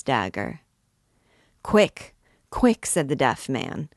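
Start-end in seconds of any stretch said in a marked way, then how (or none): 1.6-2.1 sharp urgent cry, higher and louder; an urgent first call to move. Acted. Hunchback urging the horse on. 2.5-2.9 repeated cry pushed even higher and louder; the hunchback's more insistent call to move; more urgent call. Acted. Hunchback urging the horse on.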